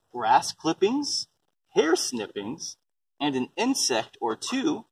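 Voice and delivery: put-on slow, rhythmic read-aloud for kids; reading a picture book aloud. Mom reading the compost book to her kids, slow and rhythmic. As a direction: read each item like a list for a child.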